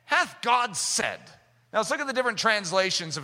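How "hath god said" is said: slow, sly hath God said; lightly voiced tempting serpent; drawn-out mild sly question; serpent's question. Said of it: "he said unto the woman".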